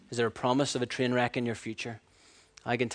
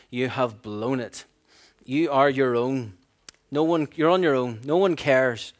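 voice of the world's lies; 6 dB louder than usual. Acted. Voicing the world's accusing lies.

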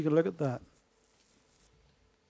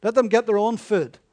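mild insistence; 3 semitones higher, 8 dB louder than usual. Retold or imitated. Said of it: "they said".

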